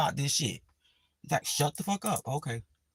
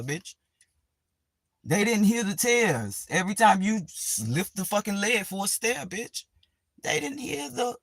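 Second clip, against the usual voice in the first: mock eulogy; 3 semitones higher than usual. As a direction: read your own eulogy with mock drama. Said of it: "Put this in the obituary".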